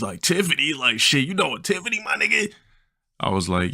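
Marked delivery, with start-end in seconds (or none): 0.2-2.5 high, startled homie impression; friend's voice. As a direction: ask in disbelief, voice climbing. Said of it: "Yeah, that's how he talked".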